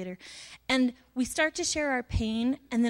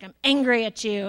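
mock angry; 6 dB louder than usual. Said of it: "put on my Iron Man suit of anger".

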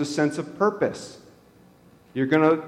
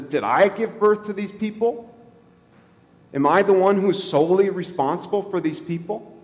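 anguished cry; 5 semitones higher than usual. Retold or imitated. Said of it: "He cries out and he says".

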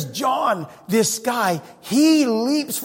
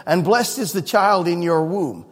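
loud joyful cry. Retold or imitated. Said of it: "She cried out with a loud voice".

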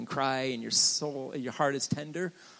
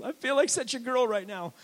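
higher, self-mocking inner voice; mock sheepish thought, pitched higher; mock embarrassment; 11 semitones higher, 4 dB louder than usual. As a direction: poke fun at his teenage self. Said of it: "I was thinking to myself".

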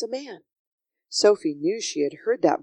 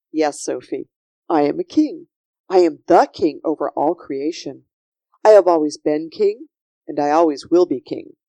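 firm, louder kingly declaration; regal Yeshua; 2 semitones lower, 6 dB louder than usual. Acted. Yeshua reveals himself to Sophie, regal and assured. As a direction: proclaim it with steady authority.

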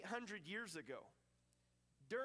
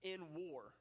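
headline reading. Acted. Preacher reads listeners the day's headlines, measured headline delivery. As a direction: read out each headline deliberately, spaced with pauses. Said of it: "These are some of the headlines".

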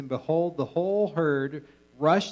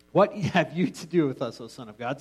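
rereading with a laugh; 4 dB louder than usual. Shown as a demonstration. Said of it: "the demons cry out".

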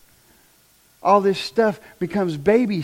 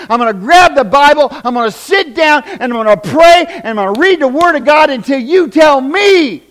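fervent prayer; 7 dB louder than usual. Acted. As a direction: cry out to God in earnest. Congregation praying fervently.

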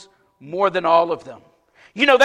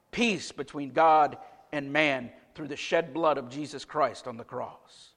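softer, lower earnest plea; earnest appeal; 5 semitones lower, 3 dB quieter than usual. Acted. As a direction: draw them in quietly.

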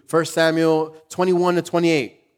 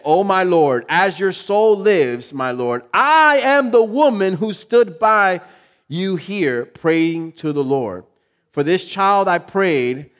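pleading Hannah; 4 semitones higher, 3 dB louder, slower than usual. Acted. Hannah pleads to Eli, read.

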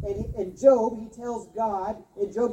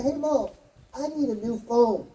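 put-on pleading kid; 4 semitones higher than usual. Kid asking mom for phone.

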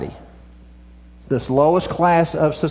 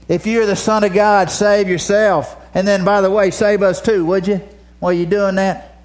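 mocking thief; 3 semitones higher than usual. Mocking thief voiced by preacher.

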